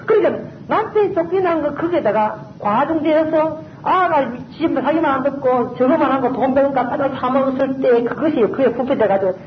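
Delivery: ordinary talk, nothing marked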